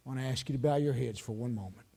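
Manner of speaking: low, softened pastoral appeal; altar call. Real, not acted. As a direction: gently invite them to come and pray. Preacher gives closing altar call.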